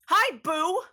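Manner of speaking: high, loud call-out; cheery greeting. Acted. Calling out to the old man, cheerily. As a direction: sing out a hello.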